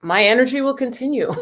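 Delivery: quoting him through a laugh; amused imitation of the philosopher; laughing quote. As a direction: let a laugh break into the line. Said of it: "he's like".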